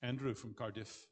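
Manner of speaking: put-on slow, light stab at a Welsh accent; attempted Welsh accent. Moderator calls the next questioner from Cardiff in an attempted Welsh accent. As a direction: try a Welsh accent, unhurried. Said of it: "was that a Welsh accent".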